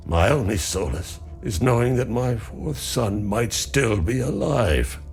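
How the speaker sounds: measured, sorrowful recollection; grieving. Acted. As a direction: mourn your sons with restrained hope. Villager recounts losing sons.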